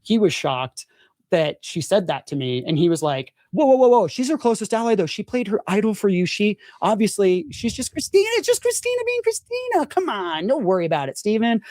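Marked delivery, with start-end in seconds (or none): 3.5-11.6 retold reassurance. Rizzo reassuring Steven, retold.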